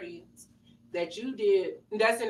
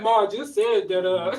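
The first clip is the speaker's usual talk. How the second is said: put-on lower, deepened teenage boy voice; deep teen son voice; 4 semitones lower than usual. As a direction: drop it low like a boy whose voice broke. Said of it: "He was like".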